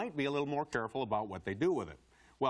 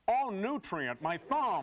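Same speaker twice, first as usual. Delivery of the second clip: mock cry of pain; 5 semitones higher, slower than usual. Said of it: "would it be so hard to cry out".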